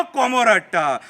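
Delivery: measured satirical verse recital; mocking political poem read aloud; poem recitation. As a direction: recite it as rhythmic verse, letting the line endings fall.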